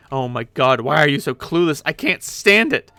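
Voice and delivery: exasperated outburst. Acted. Jane bursts out in frustration at Jake. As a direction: vent the frustration.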